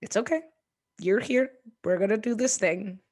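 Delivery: steady someone who's spiralling; imitating partner. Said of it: "she would be like".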